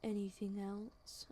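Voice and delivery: slow, soft imitation of aloofness; aloof. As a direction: mimic him, drawn out and dismissive. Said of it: "the aloof little".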